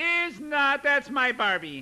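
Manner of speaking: put-on high, loud whiny kid voice. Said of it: "that whiny kid voice".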